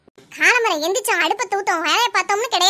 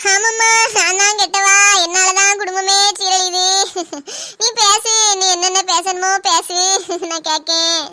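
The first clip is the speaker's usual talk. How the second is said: self-pitying whine; slower than usual. Acted. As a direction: play the wronged victim with fake tears. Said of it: "இப்படி அழுதுட்டு கிடக்கணும்". (மெதுவான சுய இரக்க புலம்பல்)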